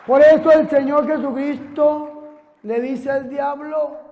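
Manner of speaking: a preacher's steady sermon voice; preaching. Acted. Preacher to his congregation, in a steady sermon voice.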